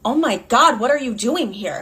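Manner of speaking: lightly acted startled question; mildly startled. Boyfriend caught by girlfriend's daughter, mildly startled question. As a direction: play him caught off guard, only mildly. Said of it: "Clearly the man is startled".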